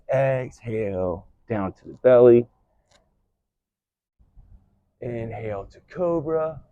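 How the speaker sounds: steady rhythmic cues timed to the breath; yoga flow cueing. Shown as a demonstration. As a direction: call each pose as the class moves.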